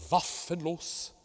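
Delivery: Waffenlos with a long, doubled F; double F. Shown as a demonstration. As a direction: stretch the F in Waffenlos, slow and high. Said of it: "double F".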